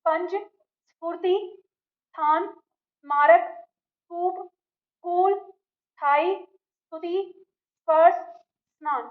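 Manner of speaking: slow, deliberate reading of the word list, each word set apart; teacher models each word one at a time; careful demo reading. Shown as a demonstration. Teacher models correct pronunciation for students, slow and careful. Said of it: "तो ये आपका सही उच्चारण है".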